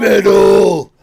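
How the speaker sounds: loud, high cheer of Metal; excited shout. Real, not acted. Host cheering the guest's story in a loud, high shout. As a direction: shout it out like a fan at a show.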